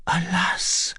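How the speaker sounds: high, whispery sigh of despair; faltering. A narrator's reading. Exhausted girl to the recluse, faltering. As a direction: barely get the word out, whispered. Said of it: "she faltered".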